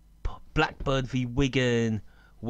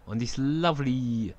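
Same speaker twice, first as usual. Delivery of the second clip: sarcastic. Real, not acted. Commentator mocking a warm evening in Teesside, sarcastic. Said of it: "I'm being sarcastic".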